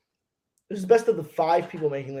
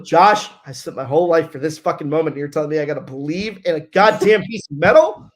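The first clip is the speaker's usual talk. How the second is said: exasperated outburst; 7 dB louder than usual. Retold or imitated. Arguing with crew chief on radio.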